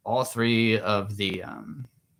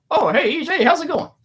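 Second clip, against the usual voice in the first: much higher, frog puppet voice; Kermit the Frog; 8 dB louder than usual. Retold or imitated. Famous author greeting a starstruck fan, in a much higher frog puppet voice. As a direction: imitate a Kermit-like voice all the way through. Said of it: "he sounds like Kermit the Frog".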